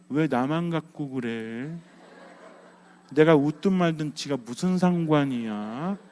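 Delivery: slow, sulky mock grumble; stubborn grumbling. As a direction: grumble slowly like someone stubbornly feeling picked on. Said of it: "이거 고래심줄이에요". (고집스럽게 느릿느릿 투덜대기)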